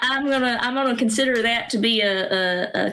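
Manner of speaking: Texas accent. Real, not acted. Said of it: "Whenever I talk about Texas or Texas accents".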